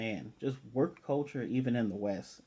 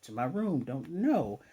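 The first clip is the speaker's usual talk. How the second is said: retold scolding, raised pitch without real volume; mild mock yell; 4 semitones higher than usual. Lloyd yelling at the girl for reaching for his doorknob, mild mock scolding. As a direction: lightly imitate a father telling off his child. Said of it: "he yells at her".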